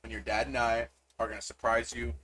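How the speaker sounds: soft, proud, smiling encouragement. Acted. Mom encouraging her son over the phone, smiling. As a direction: reassure him with a smile in the voice. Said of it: "you can hear the smile in her voice".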